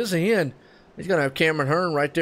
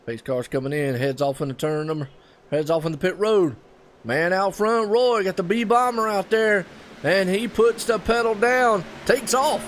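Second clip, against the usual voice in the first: live play-by-play; 3 semitones higher than usual. Acted. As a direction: call the restart like the trucks are storming past you.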